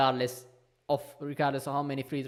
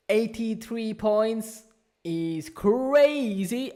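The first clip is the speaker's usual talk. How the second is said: amazed; 5 semitones higher, much slower than usual. Real, not acted. Amazed at the score.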